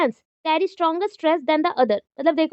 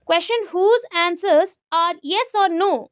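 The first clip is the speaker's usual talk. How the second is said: reading out; 3 semitones higher, much slower than usual. Shown as a demonstration. Reads out a definition slowly.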